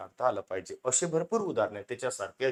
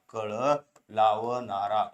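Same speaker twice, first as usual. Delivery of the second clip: कळ लावणारा said slowly, each syllable drawn out; slow syllable drill; 3 dB louder, slower than usual. Shown as a demonstration. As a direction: drag out कळ लावणारा for students. (हळू, स्पष्ट उच्चार)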